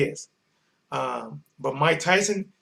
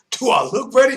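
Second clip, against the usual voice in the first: shout; 7 semitones higher, 6 dB louder than usual. Retold or imitated. Retold, shouted repeat.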